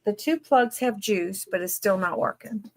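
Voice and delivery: talking through a yawn; words stretched by a yawn. Real, not acted. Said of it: "I'm sorry about the yawning".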